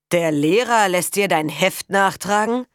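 loud mocking disbelief; scornful sneer. Father mocking the day labourer's son, scornful sneer. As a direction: sneer the question at him. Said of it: "höhnte Lange".

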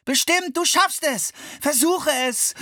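loud, high insistent cheering; urgent encouragement. A narrator's reading. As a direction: push her on with every word. Brother urging sister from mud.

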